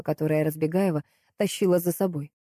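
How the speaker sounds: ordinary delivery, nothing marked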